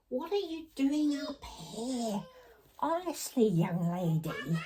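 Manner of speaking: lightly exasperated pretend mummy; mock motherly scolding. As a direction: play an exasperated mum catching a child out. Mock-scolding her dolls as Mummy.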